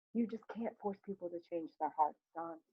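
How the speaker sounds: soft, understated sadness; almost sad. A narrator's reading. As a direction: say it quietly, with a touch of regret. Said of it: "Lindner says almost sadly".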